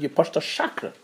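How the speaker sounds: hushed, low-voiced complaint; retold whisper. Woman privately complains to matchmaker about the groom, mock whisper. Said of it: "she whispers to the shadchan".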